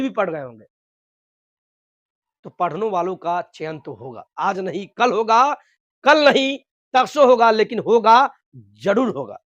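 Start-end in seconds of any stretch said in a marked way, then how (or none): 4.4-9.4 rally the students: it will happen; fervent promise. Real, not acted. Rousing promise to exam aspirants.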